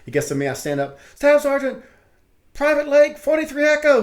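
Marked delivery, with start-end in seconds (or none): 1.1-4.0 high, loud, eager sound-off; proud private reporting loudly to the staff sergeant; eager recruit sound-off. Retold or imitated. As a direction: bark your name and MOS like a keen private.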